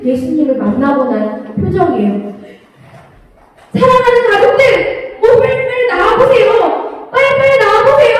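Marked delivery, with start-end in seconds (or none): 3.7-7.1 calling the family out, higher and eager; excited calling. Acted. Simon calls his family. 7.1-8.2 faster, higher, more insistent repeat of 빨리빨리 나와보세요; more urgent call. Acted.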